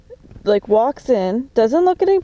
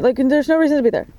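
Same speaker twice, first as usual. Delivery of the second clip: ordinary talk, nothing marked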